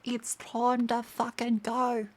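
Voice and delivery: slow, mock-formal swearing announcement; lightly voiced crude conductor; mock Aussie announcer. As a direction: parody an outback train announcement. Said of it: "announce the place".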